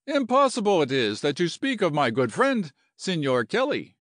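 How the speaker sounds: a touch of affronted Latin general; lightly voiced indignant general. General defends his good friend, mildly indignant.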